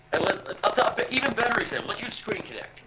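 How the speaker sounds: distorted, robotic mic audio; glitchy metallic robot-sounding line. Real, not acted. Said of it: "You sound robotic".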